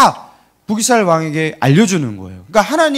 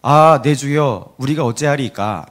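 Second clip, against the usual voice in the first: 차분한 낭독조; 4 semitones lower than usual. Shown as a demonstration. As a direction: read the cry of distress without any panic. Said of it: "사환이 정말 이렇게 말했겠어요?". (느리고 낮은 성경 낭독조)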